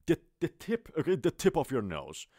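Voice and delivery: teacher modeling the tip of your nose; English word tip. Shown as a demonstration.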